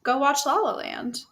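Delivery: lightly put-on teacher assigning homework. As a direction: hand out homework in a mock teacher voice. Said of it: "Let me whip out my teacher voice".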